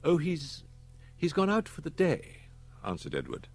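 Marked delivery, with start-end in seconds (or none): 0.0-2.5 put-on lightly raised young man's voice; boy answering the secretary, a bit evasive; Edward's voice. Boy tells Missus Platt the boss left, lightly voiced.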